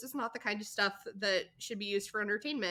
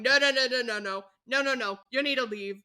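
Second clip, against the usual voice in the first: mildly raised voice, rapid string of no's; mock yelling; 2 semitones higher, 5 dB louder than usual. Coach ordering a dad out of the dressing room, mock yelling. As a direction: imitate a coach shooing someone out, half-shouted. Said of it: "start yelling at him, going".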